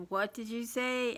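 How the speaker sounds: light, called-out yell. Retelling calling out a car window to the driver: retelling own yell. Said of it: "And I yelled out my window".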